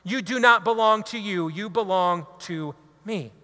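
slow, low divine reply; Holy Spirit's voice. Acted. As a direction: speak as the Spirit, calm and firm. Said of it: "the Holy Spirit says".

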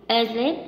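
asleep with -SLEEP stressed; stress on second syllable. Shown as a demonstration. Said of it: "đều có trọng âm một. Trừ".

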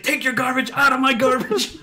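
high-pitched mock fury; hammed-up petty outrage; outraged neighbor. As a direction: imitate an irate neighbor giving orders. Acted neighbour ordering him off.

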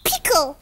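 "pickle" said in her own foreign accent; her accented pronunciation. Shown as a demonstration. The speaker showing friends how she says a word, accented "pickle". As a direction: show how you say "pickle" with your accent. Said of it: "when I say".

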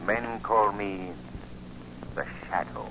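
mysterious avenger slowly revealing himself; the Shadow. Acted. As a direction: draw out the name with menace.

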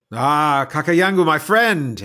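high and loud, delighted to see him; joyful greeting. Acted. Neope reuniting with her old friend Kakayangu, loud and delighted. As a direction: throw the greeting out with open arms.

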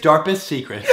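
giggling through it; laughing. Real, not acted. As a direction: laugh while correcting the word.

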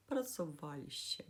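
«працюваліще» stressed on «ва»; stress third from end. Shown as a demonstration. Teacher gives past-tense example, stressing «ва» in «працюваліще». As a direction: lean on «ва» in «працюваліще». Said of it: "коли наголос падає на третій склад".

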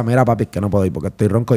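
hoarse excuse. Retold or imitated. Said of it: "Y yo le decía".

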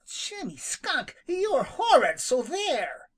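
very high, rising to loud, near tears; outraged declaration. Acted. Rabbit telling Jimmy he's horrid, high and outraged. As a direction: hurl it at him, outraged. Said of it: "declared Peter".

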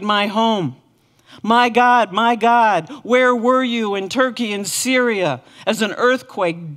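loud, pleading cry to God; anguished cry. Acted. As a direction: cry each "My God" out in grief. Voiced lament prayers of grieving people.

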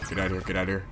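hushed murmur. Real, not acted. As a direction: keep it hushed, don't get heard. Whispering while hiding.

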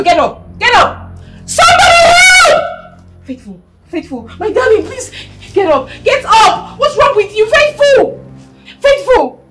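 high, loud, sobbing cries for help; hysterical crying scream. Acted. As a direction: scream her name in terror, crying. Mother screams over collapsed daughter.

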